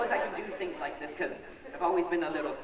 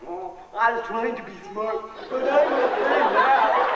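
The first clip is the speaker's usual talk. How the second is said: put-on kid's answer; 4 semitones higher, 6 dB louder, slower than usual. Comedian voicing his younger self.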